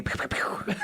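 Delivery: soft airy "pew" gun noises; little pretend pistol shots; mock gunfire. Imitating gunshots at a delivery.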